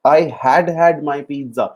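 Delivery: very slow, every word separated; slow teaching demo. Shown as a demonstration. Teacher dictating the model sentence, very slow. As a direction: model "I had had my pizza" word by word. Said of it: "had plus third form".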